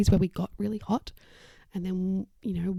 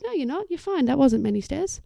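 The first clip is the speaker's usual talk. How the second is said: lightly acted, higher-pitched brush-off; mock dismissal; 4 semitones higher, 5 dB louder than usual. Bystander brushing off someone winded by stairs, mock dismissal. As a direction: wave away the complaint, pitched up.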